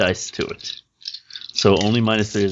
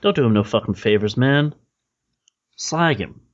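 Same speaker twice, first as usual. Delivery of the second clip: pushy dwarf, rising higher at the end; lightly voiced dwarf sidekick; dwarf buddy; 3 semitones higher than usual. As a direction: egg the fixer on, sneering. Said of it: "pipes up and says".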